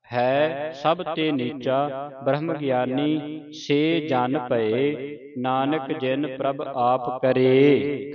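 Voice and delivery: slow, drawn-out line endings; scripture recitation. Shown as a demonstration. Teacher recites Sukhmani Sahib for the congregation, slow measured recitation. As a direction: recite slowly, holding the long vowels.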